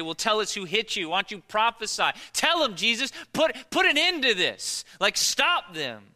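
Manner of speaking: building high and loud plea; yelling at the Bible. Retold or imitated. Preacher yelling at scripture's scene, rising loud. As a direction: yell at the story to stop it. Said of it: "I wanna yell at the Bible".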